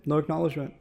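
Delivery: ordinary delivery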